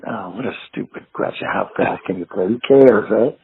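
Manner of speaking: low, under-the-breath retort, rising to a shrug-off; lightly acted put-down, not incensed; mildly dismissive. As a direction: imitate weary disdain for a silly question. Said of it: "he wasn't incensed, but he was like".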